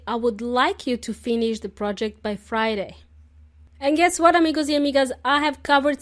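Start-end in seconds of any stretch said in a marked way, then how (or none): 0.0-3.0 courteous request with "like" stressed; polite. Shown as a demonstration. A manager asking a colleague politely. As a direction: ask it politely, not demanding. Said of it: "The correct way would be to say".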